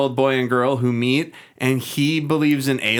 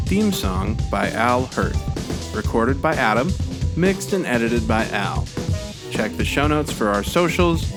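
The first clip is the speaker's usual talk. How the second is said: credits read; 2 semitones lower than usual. Real, not acted. Host reads the show's production credits to listeners, credits read. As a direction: read the end credits evenly with clear pauses.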